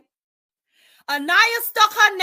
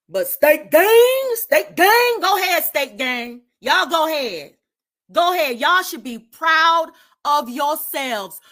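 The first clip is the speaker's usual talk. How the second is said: loud mocking go ahead; sarcastic taunt; 5 dB louder than usual. Real, not acted. Taunting the Steak Gang fans, loud sarcastic jeer. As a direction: egg them on with scornful sarcasm.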